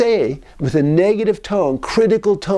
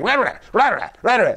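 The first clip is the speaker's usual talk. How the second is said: mock barking; 3 semitones higher than usual. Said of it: "like you're barking".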